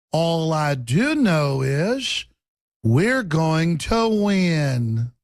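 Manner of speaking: slow, measured mock politician; Hillary Clinton. Mocking Hillary's campaign speech, slow and measured. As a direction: drag each word out like a campaign speech. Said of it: "That's Hillary Clinton".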